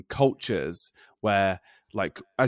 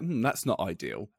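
softly understated, slightly lowered voice; British understatement; 3 semitones lower, 6 dB quieter than usual. Retold or imitated. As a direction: play down bad news politely.

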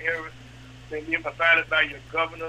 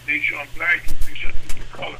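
urgent; 13 dB louder, faster than usual. Real, not acted. Urgent plea about the virus.

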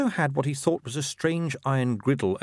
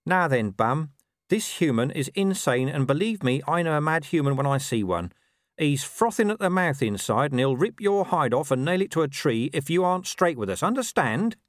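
higher-pitched talking dog laying down threats; Gaspode, warning; 5 semitones higher, 3 dB louder than usual. Acted. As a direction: warn him like a small tough mutt.

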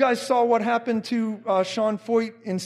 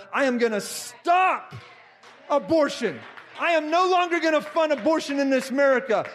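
shouted vow; 2 semitones higher than usual. Retold or imitated. Quoting Trump's vows, shouting.

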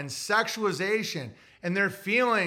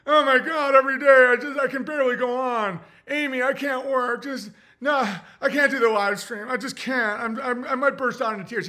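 mock self-pity; 3 semitones higher than usual. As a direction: parody a wallowing self-pitying version of himself. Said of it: "be like".

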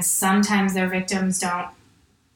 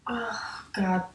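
whispered horror; 7 dB quieter than usual. Real, not acted. Reacting to grim detail.

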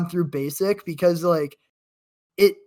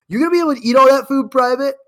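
fast, loud, high barked question; drill sergeant; 8 semitones higher, 7 dB louder, much faster than usual. Retold or imitated. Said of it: "He's like".

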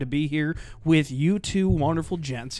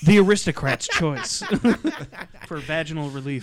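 mock ad laughing.

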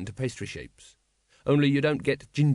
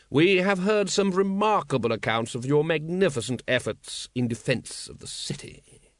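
suave patrician; 4 semitones higher than usual. Acted. Patrician's voice in narration.

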